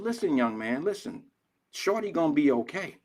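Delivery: put-on soft, tactful older-man counsel; gentle reassurance. Older man calming a frustrated young father, gently. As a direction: reassure him quietly. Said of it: "I had to gracefully go to him".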